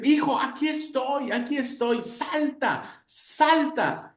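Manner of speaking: father below the balcony urging his son to jump; urgent calling. Acted. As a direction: call up to him, jump now.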